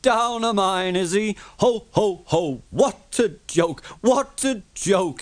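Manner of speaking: high, loud booming laughter; laughing loudly. A narrator's reading. Gordon laughing loudly about Thomas down the mine. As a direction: roar with mocking laughter. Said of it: "he laughed very loudly".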